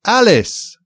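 very high, loud shrill cry; shrill little voice. A narrator's reading. White Rabbit reading out the witness's name, shrill loud cry. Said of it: "top of his shrill little voice".

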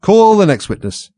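slow, loud, high-pitched summons; calling out. A narrator's reading. King summoning the next witness, slow loud high call.

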